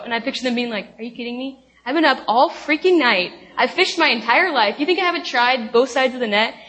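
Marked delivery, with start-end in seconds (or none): 1.0-6.5 mildly indignant mock protest; fired up, imitated. Tired fishermen answering a stranger's advice, lightly fired-up protest. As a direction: act out a fisherman getting a bit fired up. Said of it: "just kinda getting fired up".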